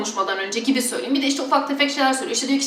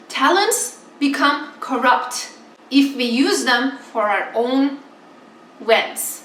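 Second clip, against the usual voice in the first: reading the pastor's quote; slower than usual. Retold or imitated. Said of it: "İngilizcesini önce okuyup".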